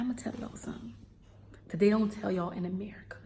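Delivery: half-whispered secret; confiding. Real, not acted. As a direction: drop your voice and let them in on it. Sharing a secret with listeners.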